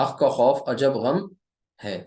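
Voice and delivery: हक का खौफ अजब गम spoken slowly, each Arabic letter articulated; careful recitation. Shown as a demonstration. Teacher dictating the letter sentence slowly to students. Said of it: "इस है को ऐसे लिख लें".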